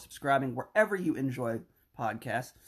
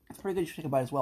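chewing while talking; much faster than usual. Real, not acted. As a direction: mouth full of bar. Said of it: "you can hear us chewing".

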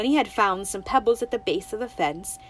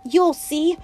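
higher, louder defiant vow; defiant girl; 3 semitones higher, 5 dB louder, slower than usual. Acted. Winnie vowing to the toad she'll run away, defiant. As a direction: promise it stubbornly.

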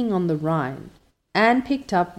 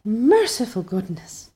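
put-on slow, lightly muffled old aunt's cry; a startled old lady under the covers; muffled old woman; 4 semitones higher than usual. A narrator's reading. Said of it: "said in muffled accents".

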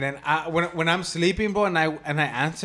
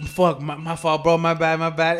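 flustered apology; 7 dB louder than usual. Retold or imitated. Caller apologizes on noticing the time.

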